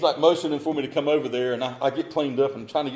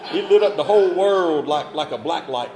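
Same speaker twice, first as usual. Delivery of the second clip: laughing; 5 semitones higher, 9 dB louder than usual. Real, not acted. Laughing while recalling the blue light.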